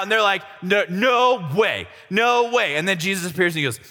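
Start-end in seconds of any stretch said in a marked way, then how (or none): 0.6-2.8 slow, stretched-out disbelief; drawn-out comic amazement; mock freak-out. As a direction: act stunned, dragging each word. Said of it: "they're all freaking out".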